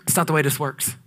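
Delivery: a hint of God's gentle correction. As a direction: speak as a patient God. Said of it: "And God's like".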